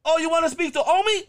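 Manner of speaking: very high, loud grandma voice; hammed-up grandmother on the phone; shrieky imitation of a friend's grandma. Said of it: "she'd answer the phone".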